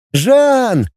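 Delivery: high sharp yell of a name; shouting. A narrator's reading. Claude shouting for her brother, a high yell. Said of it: "закричала Клод".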